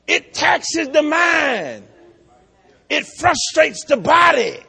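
loud, high, slow pulpit shouting; full-force preaching. Acted. Preacher shouting the cost of following Christ to the congregation, full force. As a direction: preach it hard with every word hammered out.

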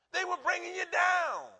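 high, slow shouted line; preaching shout. Acted. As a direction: drive it home at full voice. Preaching climax.

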